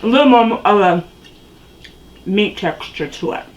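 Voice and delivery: chewing while talking; mouth full. Real, not acted. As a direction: speak round a bite of burger. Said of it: "talking with my mouth full".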